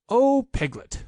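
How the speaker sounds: high eager call of a friend; bursting with news for Piglet; excited. A narrator's reading. Pooh greets Piglet, excitedly. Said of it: "said Pooh excitedly".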